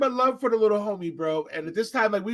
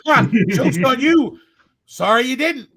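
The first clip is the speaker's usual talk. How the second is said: mock taunt back; 6 dB louder, slower than usual. Bouncer throws the taunt back.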